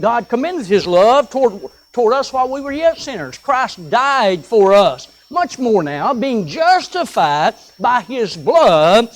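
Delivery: slow, weighty reading of the psalm; reading scripture from the pulpit, slow and solemn. Acted. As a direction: lay out each phrase slowly like holy writ. Reads scripture aloud.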